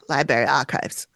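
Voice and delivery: "library" said "LIE-berry", low; imitating his accent. Host echoing his accent, "library" as "LIE-berry". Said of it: "it's his accent".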